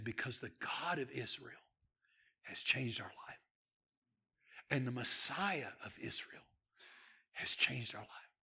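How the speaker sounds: quietly awed testimony; hushed retelling. Retold or imitated. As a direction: drop to a near whisper of awe. Host sharing faith, hushed reverent.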